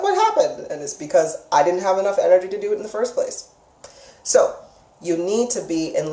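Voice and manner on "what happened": sudden high-pitched "what happened?"; confused surprise. Retold or imitated. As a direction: act baffled, as if the energy came back out of nowhere. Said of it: "you're gonna be like".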